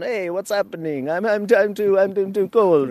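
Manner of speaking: cold shivering bees. Retold or imitated.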